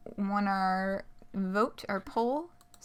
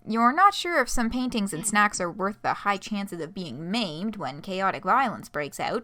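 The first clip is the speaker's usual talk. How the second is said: lively, animated story narration; expressive read-aloud with swooping intonation; game master scene setting; 3 dB louder, faster than usual. Acted. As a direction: set the scene for the player, leaning on key words.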